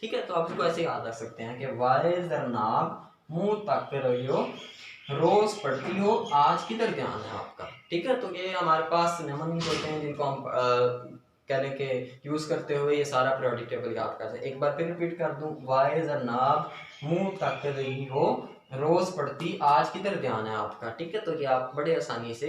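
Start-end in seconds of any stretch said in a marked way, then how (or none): 1.6-7.7 put-on Punjabi accent. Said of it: "एक लहजा है कि". 15.6-20.9 put-on Punjabi accent. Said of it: "एक लहजा है कि".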